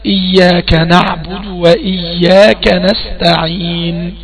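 very slow, drawn-out Quranic chant; slow recited verse with long vowels; Quran recitation. Shown as a demonstration. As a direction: intone the verse slowly as in prayer. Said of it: "لما أقول لك".

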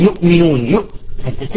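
"يؤمنون" with a glottal stop after the first vowel; fully sounded hamza in "يؤمنون"; hard hamza. Shown as a demonstration. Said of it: "تشعر أن الهمزة صعبة".

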